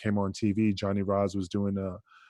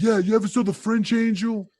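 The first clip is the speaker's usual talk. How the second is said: much higher, eager mock trainer voice; trainer insisting; 10 semitones higher, 4 dB louder than usual. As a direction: push the idea with a grin in the voice. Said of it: "And he's like".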